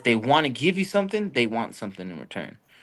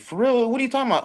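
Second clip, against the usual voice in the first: mock disbelief; 12 semitones higher, faster than usual. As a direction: act out being startled by the news. Teller's own startled reply.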